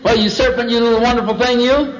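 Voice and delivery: high, gushing put-on enthusiasm; excitable serpent sales talk; positive, chatty serpent. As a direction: play a delighted flatterer, pitched well up. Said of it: "he talked to him on the positive".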